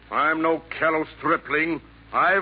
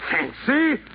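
offended echo; 6 semitones higher than usual. Acted. Echoes Santa's word.

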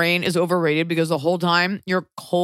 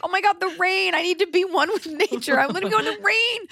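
mock dreamy self; 12 semitones higher than usual. Mocking her own rain obsession.

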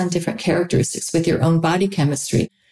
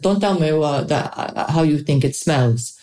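put-on French accent. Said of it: "but in their French accent".

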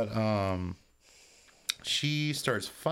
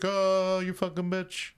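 mock outraged yell; 7 semitones higher, slower than usual. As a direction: cry out in mock horror at the betrayal. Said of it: "Alex is like".

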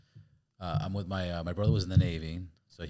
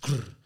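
grinding sound; 6 semitones higher, 5 dB louder than usual. Retold or imitated. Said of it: "I hear the flat".

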